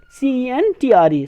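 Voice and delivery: slow letter-by-letter dictation; slow teacher spelling. Shown as a demonstration. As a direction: spell each letter slowly. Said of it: "fifth word है सेंटर".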